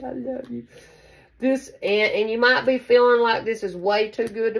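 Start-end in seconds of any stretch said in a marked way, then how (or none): 0.0-0.7 tender I love you. Pretend. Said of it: "how you say it like that".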